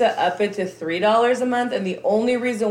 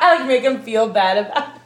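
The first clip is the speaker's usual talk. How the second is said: laughing; 3 semitones higher, 4 dB louder than usual. Real, not acted. Laughing at herself.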